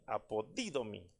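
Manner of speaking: apodidomi, stressed on the "di"; acento en la i. Shown as a demonstration. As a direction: lift and lean on the accented i in the "di" of apodidomi. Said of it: "porque lleva acento en la I". (apodidomi, marcando el acento en la i de «di»)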